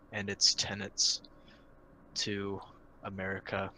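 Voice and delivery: halting mock-solemn eulogy; choked up. Podcast host eulogizing the late Chrysler CEO, mock choked up. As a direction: feign grief with long, heavy pauses. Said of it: "I'm getting a little choked up".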